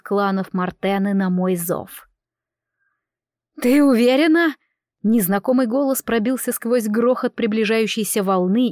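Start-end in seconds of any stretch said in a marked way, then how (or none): 3.6-4.5 otherworldly panther voice. Acted. Strange voice of the panther.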